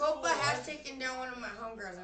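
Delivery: loud, high excited gossip; excited shouting. Real, not acted. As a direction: blurt it out, thrilled and loud. Excited gossip about a friend.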